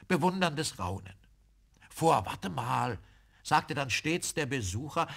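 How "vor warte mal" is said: slow, drawn-out reckoning; lightly voiced guest working it out; pondering visitor. A narrator's reading. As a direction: think aloud slowly as a visitor. Visitor pondering the date aloud.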